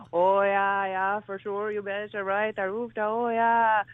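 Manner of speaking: hammed-up Minnesota accent, drawn-out oh yeah; mock Minnesotan in the throes of excitement. Comedian acting out her joke in a thick Minnesota accent. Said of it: "my Minnesota accent comes back".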